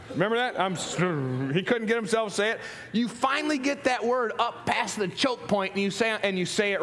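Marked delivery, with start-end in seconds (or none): 0.6-1.5 choked Fonzie sorry. Retold or imitated. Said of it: "he couldn't say he was sorry".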